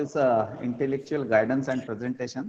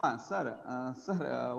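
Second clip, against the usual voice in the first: barely audible; 8 dB quieter than usual. Real, not acted. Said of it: "I was not able to hear".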